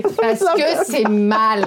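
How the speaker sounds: moralizing voice. Pretend. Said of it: "C'est qui?".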